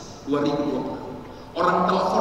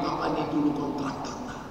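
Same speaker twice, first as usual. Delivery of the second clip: soothing father, retold; 7 semitones lower, 7 dB quieter than usual. Father calming his crying daughter.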